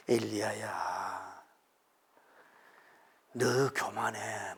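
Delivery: slow, soft reproach by name; soft-voiced God rebuking the prophet; gentle rebuke. A narrator's reading. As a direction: correct him slowly and tenderly. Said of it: "부드럽게 얘기해요".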